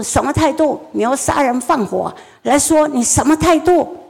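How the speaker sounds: put-on mother blowing up at her child's attitude; mother exploding. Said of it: "爆了".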